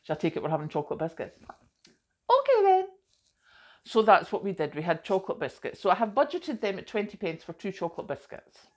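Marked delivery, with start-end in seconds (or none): 1.9-2.9 mock resigned okay. Giving in to biscuits.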